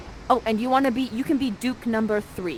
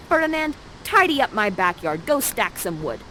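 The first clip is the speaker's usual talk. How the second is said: a touch of the commanding employer; lightly acted order, raised at the start; bossy order; 4 dB louder than usual. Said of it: "right now you're going to say".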